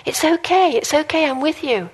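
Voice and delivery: put-on gentle parent comforting a child; soothing a scared child. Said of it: "you hold them and you reassure them".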